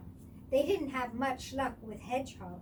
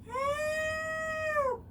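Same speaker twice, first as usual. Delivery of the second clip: very high, loud, long call; cry for help; 5 dB louder than usual. A narrator's reading. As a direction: call out from far away. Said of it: "came the cry again".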